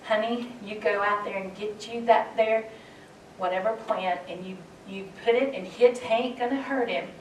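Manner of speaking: a hint of an old Appalachian grandmother giving advice; lightly voicing her grandma's folksy advice; grandmother's voice. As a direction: grandmother on the phone, lightly imitated, telling her what plant to use. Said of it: "she'd say in her voice".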